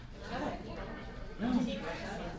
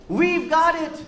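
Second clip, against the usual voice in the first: excited shout; 7 semitones higher, 5 dB louder, slower than usual. Acted. Astronauts' report over loudspeakers.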